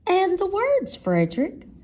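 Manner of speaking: high, eager asking. Acted. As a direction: beg for the words. Mice ask eagerly.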